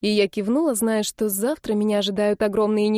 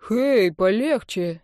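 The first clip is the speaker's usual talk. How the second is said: обиженно, медленно; much slower than usual. Acted. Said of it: "сделал обиженное лицо Дэн".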